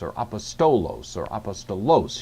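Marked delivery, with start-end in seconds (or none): 0.1-1.2 aposTOlos, stressed on TO; stress on third syllable. Shown as a demonstration. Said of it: "several ways you might pronounce it". 1.3-2.2 apostoLOS, stressed on the final LOS; stress on last syllable. Shown as a demonstration. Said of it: "you can accent it a variety of ways".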